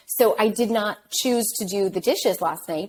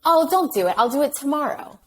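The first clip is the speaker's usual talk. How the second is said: instinctive protest; 6 semitones higher than usual. Retold or imitated. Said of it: "my first instinct was to say".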